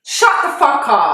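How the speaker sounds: stunned, loud shut the fuck up; shocked disbelief. Real, not acted. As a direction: blurt it out in disbelief. Shocked disbelief at friend's claim.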